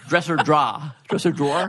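"Dresser drawer" with the r's dropped; "Dresser drawer", broad Long Island vowels; Long Island accent. Shown as a demonstration. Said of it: "Long Island accent".

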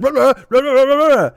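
high, loud garbled heckling noises; popcorn-mouthed gibberish. Retold or imitated. Imitating a fan heckling with popcorn stuffed in his mouth, loud garble. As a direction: yell nonsense through an imagined mouthful. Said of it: "puts all the popcorn in his mouth".

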